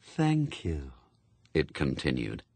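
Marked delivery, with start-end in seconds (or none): 0.0-0.9 Death, calm and cold. Acted. Death speaks.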